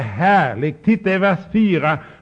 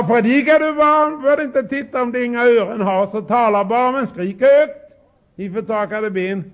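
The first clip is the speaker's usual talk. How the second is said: God commanding; 5 semitones higher, 3 dB louder than usual. Retold or imitated. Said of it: "Gud, han sa".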